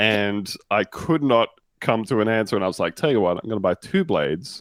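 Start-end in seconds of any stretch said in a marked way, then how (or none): none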